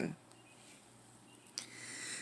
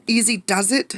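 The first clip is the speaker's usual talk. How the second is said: cautioning; 5 semitones higher than usual. Acted. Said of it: "she cautioned the wind".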